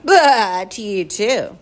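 loud, high blah in retort; yelled back. A narrator's reading. Tom answering the gaboon's taunt, yelling back. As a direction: yell a cheeky comeback. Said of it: "yelled back".

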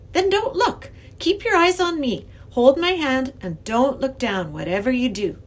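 put-on high, emphatic child giving instructions; firm young girl. A narrator's reading. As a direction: guide the professor firmly. Girl coaxes professor over bridge.

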